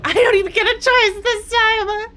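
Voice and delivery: high frustrated yell; exasperated shout. Real, not acted. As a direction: shout it in protest. Forced into using the rune.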